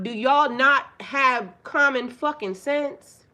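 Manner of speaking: loud, slow, exasperated demand; angry outburst. Real, not acted. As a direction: hammer the question at the men, slowly. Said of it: "Don't say it like that".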